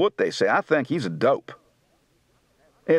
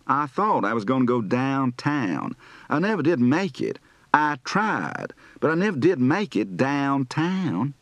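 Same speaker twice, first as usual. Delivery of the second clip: Southern accent. Shown as a demonstration. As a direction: stretch the vowels, Southern style. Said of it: "lengthened diphthongs and rising final tones".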